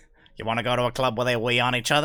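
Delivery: put-on creepy character voice. Showing the others what the original character sounded like: Old Greg voice. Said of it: "That's what he sounded like".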